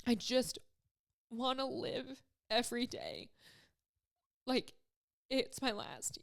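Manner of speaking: real tearful halting words; choked up, with pauses; crying. Real, not acted. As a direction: push the words out through tears. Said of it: "I ended up crying".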